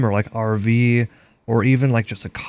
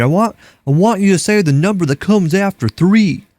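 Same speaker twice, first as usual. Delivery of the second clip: put-on Texan accent; 7 semitones higher, 5 dB louder than usual. Texan stranger checking if they're really Midwesterners, in a loud high mock Texan accent. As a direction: ham up a thick southern Texas twang, higher and louder. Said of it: "the accent on that guy was, like, insane".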